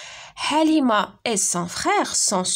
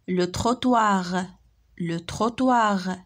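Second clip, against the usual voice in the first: slow model reading; slower than usual. Shown as a demonstration. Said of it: "lis les mots".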